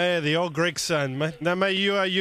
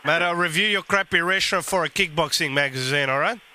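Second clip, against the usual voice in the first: Guido prank character. Acted.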